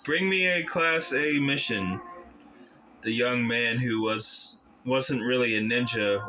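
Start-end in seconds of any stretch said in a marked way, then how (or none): 0.0-2.0 raised, calling master voice; lightly voiced old master calling out; commanding master. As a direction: summon the servant with authority. Master calls servant.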